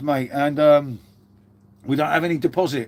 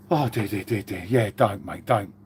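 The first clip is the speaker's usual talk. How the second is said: mock despair; 7 semitones lower, 3 dB quieter than usual.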